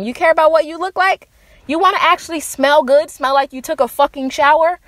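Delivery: sarcastic rising questions; mock disbelief. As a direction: feign scandal at the very idea. Mocks scorn for men who groom.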